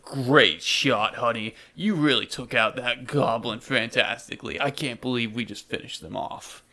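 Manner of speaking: lightly voiced hearty hero; Darwin praising partner. Darwin praises his honey's killing shot, hearty praise. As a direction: congratulate your partner after the fight.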